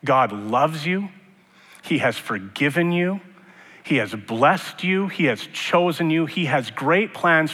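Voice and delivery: slow, gentle assurance; reassuring. Real, not acted. Pastor assuring doubting listeners, slow and gentle. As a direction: lay each promise down slowly and gently.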